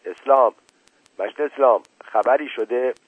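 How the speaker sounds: called out loud from behind the door; shouting. Acted. Mashti Baba shouts again through the door hole, loud. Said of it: "داد زد".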